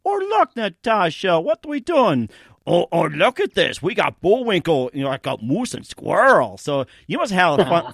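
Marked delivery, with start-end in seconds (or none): 0.0-6.6 a hint of a scheming cartoon villain; cartoon villain impression. Host lightly voicing the cartoon spy talking to Natasha. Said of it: "I hardly ever do it in radio".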